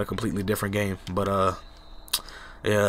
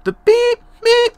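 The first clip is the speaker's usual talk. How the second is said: voice cracking; 11 dB louder, slower than usual. Real, not acted. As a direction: voice cracks way up high on beep. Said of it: "my voice cracked".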